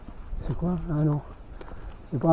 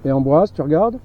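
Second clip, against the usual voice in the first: calling out; 7 dB louder than usual. Real, not acted. Appelle son compagnon derrière.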